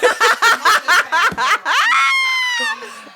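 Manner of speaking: high, loud shrieking laugh; loud burst of laughter. Real, not acted. Host laughs at his daughter's spider prank, loud high shriek. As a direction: howl with laughter.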